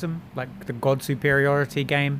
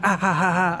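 higher, spelled-out fake laugh; mock self-satisfied laugh; 5 semitones higher, 4 dB louder than usual. Imitating a friend laughing at his own jokes, mock laughter. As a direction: put on a deliberate "ha ha" laugh. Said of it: "he needs, like, a canned laughter box".

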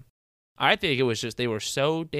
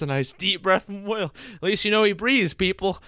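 loud announcer; 7 semitones higher, 4 dB louder than usual. Pretend. Mock announcer to listeners.

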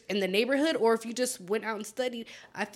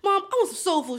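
high-pitched child pleading, retold; imitating little boy; 7 semitones higher than usual. Retelling a boy asking mom for soul food, mock pleading. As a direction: put on a pleading kid voice. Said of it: "he was talking to his mom".

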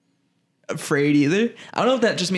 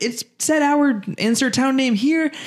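mock panic; 10 semitones higher than usual. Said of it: "she's freaking out".

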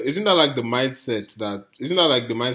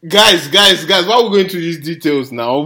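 exasperated plea; 3 semitones higher, 6 dB louder than usual. Retold or imitated. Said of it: "was like".

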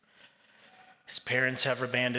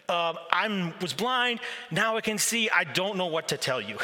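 higher, weary disbelief; exasperated; 3 semitones higher than usual. Retold or imitated. Healed man answering the questioners, mildly exasperated. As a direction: throw up your hands verbally. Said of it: "you can tell he's exasperated".

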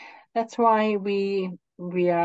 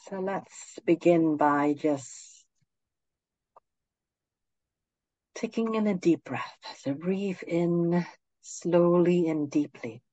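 guided meditation; 4 dB quieter than usual. Acted. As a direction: ease them gently into stillness.

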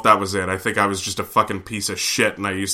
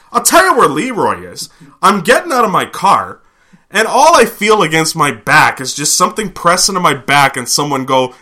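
voicing Steve; 5 semitones higher, 7 dB louder than usual. Steve retelling the robbery.

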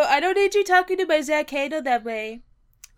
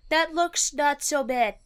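Trump impression; slower than usual. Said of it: "I said".

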